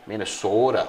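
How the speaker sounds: Minnesota-style northern vowels; Kenosha accent. Retold or imitated. Host imitating Kenosha speech, Minnesota accent. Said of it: "you're in Kenosha, and it's".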